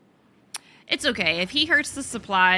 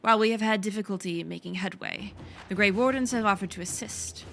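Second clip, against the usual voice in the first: put-on work-in-progress French accent. Player reads a lieutenant's report aloud, attempted French accent. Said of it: "French accent for all of it, but I'm working on it".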